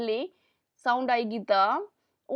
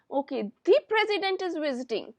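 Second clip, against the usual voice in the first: "the" said as a stressed "thee" before president; slow emphatic demo line; 3 semitones higher, slower than usual. Shown as a demonstration. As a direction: lean on "the president". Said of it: "बहुत emphasise किया president के ऊपर".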